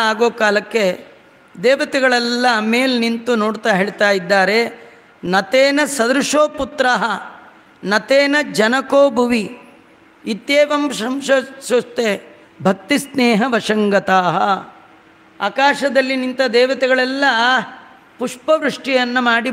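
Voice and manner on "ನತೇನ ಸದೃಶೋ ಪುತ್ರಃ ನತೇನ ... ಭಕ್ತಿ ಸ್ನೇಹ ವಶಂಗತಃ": Sanskrit verse recitation. Acted.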